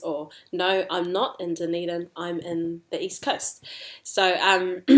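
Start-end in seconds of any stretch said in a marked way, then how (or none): 0.5-3.6 mild contradiction with weight on NOT; debating. Shown as a demonstration. Debating where one is, mild contradiction stressing NOT. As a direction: counter calmly, stressing "not". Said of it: "but we debate it".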